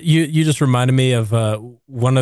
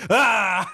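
back in character yell; 9 semitones higher than usual. Retold or imitated. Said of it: "so goes back into character".

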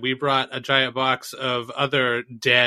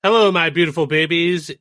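put-on cutesy e-girl greeting; sweet streamer girl voice; 3 semitones higher, 5 dB louder than usual. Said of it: "E-girl voice".

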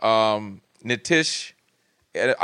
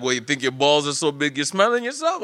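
mock motherly challenge, climbing at the end; challenging mom. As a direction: call out your son, as his mom would. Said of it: "that's how my mom would challenge me".

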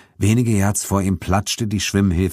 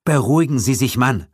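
gruff rebuke; 8 semitones higher than usual. Acted. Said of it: "raunzte Pater Roberts".

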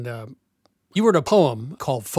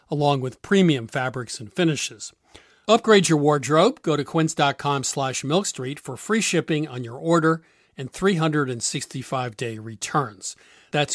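bright, upbeat sponsor read. Acted. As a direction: sell it like a radio host ad. Host reads a clothing ad.

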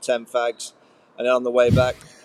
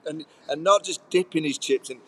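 telling it with a higher, amused voice; half laughing through it; 4 semitones higher than usual. Real, not acted. Laughing through the chips story.

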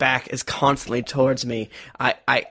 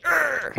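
restrained groan; 10 semitones higher, 3 dB quieter than usual. Shown as a demonstration. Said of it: "I'll just be like".

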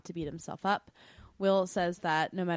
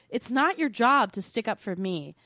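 indignant telling-off; 4 dB louder than usual. Pretend. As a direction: put your foot down as an imagined Will. Imagines herself as Will, telling Jesse off.

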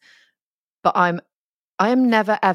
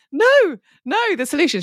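insistent correction; 14 semitones higher than usual. Retold or imitated. Insisting to shop woman.

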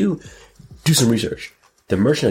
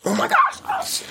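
surprised squeal; slower than usual. Real, not acted. Shocked reaction to celebration.

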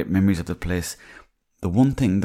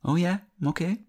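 much higher, slow, dumbfounded; surprised; 3 dB quieter, slower than usual. Retold or imitated. Startled when the radio man speaks plainly in the shop, high and slow. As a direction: caught off guard, stretch it out up high. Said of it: "And I said".

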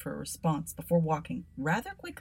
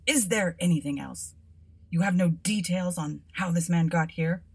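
brusque policeman; 5 dB louder than usual. Acted. Constable interrogates.

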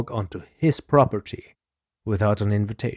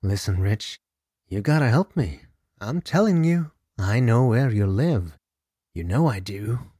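desperate menace. Acted. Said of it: "a desperate and menacing tone".

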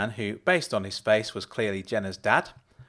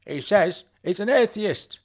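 much higher, raised call in a put-on mum voice; bellowed; 9 semitones higher, 3 dB louder than usual. A narrator's reading. Mum bellows back to her husband about the visitor. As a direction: bellow it across the house. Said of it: "she bellowed back at her husband".

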